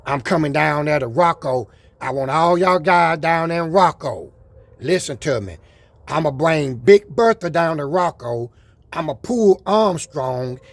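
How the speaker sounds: rally them like a hype man; loud challenge. Real, not acted. Vlogger challenging the Rocco riders, loud and pumped.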